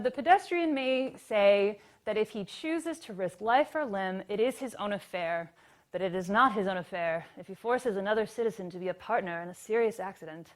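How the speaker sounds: lightly voiced vintage newsreel announcer; old-time movie voice. Shown as a demonstration. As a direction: read it like an old film narrator. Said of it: "I'm saying this in my, like, old-time movie voice".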